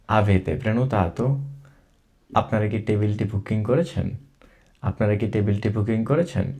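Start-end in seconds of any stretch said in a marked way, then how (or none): 0.1-1.2 Avete prenotato said very slowly, word by word; slow repeat. Shown as a demonstration. Teacher repeats the question slowly for students. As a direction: stretch it out so learners can follow. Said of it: "এটা আমি দুইবার করে পড়বো".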